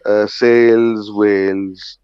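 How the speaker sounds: lightly imitated mum, words drawn out slowly; slow rhyming-word habit, lightly acted; Indian mum. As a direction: mimic mum's slow, deliberate English. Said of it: "And my mum said".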